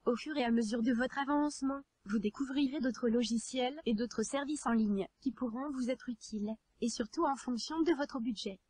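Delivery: even, machine-read text to speech narration; synthetic text to speech voice. Real, not acted. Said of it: "comme je le fais actuellement".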